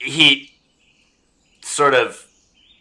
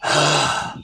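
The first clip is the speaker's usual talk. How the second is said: fed-up sigh. Acted. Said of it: "he sighs like he's fed up".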